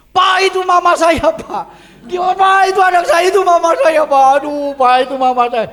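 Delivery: high, loud cries for help; desperate shouting. Retold or imitated. Boy tells police that is his mother, desperate shouting. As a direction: call out high and frantic to the officer.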